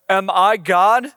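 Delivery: a touch of panicked protest, read aloud; lightly acted king losing his composure; mildly freaking out. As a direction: read it as an exasperated king, pitch climbing. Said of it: "This king is freaking out".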